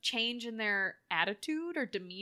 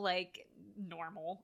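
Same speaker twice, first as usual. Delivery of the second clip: air quotes; 3 semitones lower, 5 dB quieter, much slower than usual. Shown as a demonstration. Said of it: "I'm doing finger quotes".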